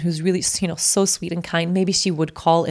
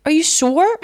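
high, loud disbelieving really with a laugh; can't believe it, almost laughing; shocked, laughing disbelief; stunned disbelief; 4 dB louder, slower than usual. Retold or imitated. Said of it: "and I was like".

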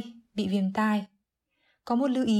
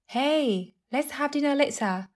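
lightly acted higher-pitched caller; friend inviting; 5 semitones higher than usual. Replays the inviting friend's line. (giọng người bạn rủ rê, hơi cao)

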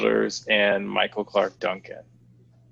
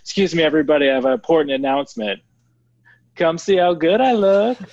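louder, higher proclaiming voice; grand announcement; 7 semitones higher, 4 dB louder, faster than usual. Retold or imitated. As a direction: call it out to a crowd. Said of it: "stood up on the railing and said".

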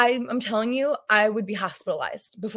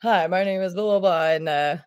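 radio DJ voice; 2 semitones lower than usual. Retold or imitated. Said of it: "sound like a radio D J or something".

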